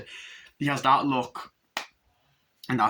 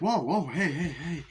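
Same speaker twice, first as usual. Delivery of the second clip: high, swooping mock alarm; repeated calls to stop someone; alarmed halting; 6 semitones higher than usual. Acts alarmed cop intervening.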